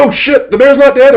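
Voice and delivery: high, startled panic; sudden dread as the bear gets up; alarmed. Retold or imitated. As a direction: player realizing the bear lives. Player panics, bear survives.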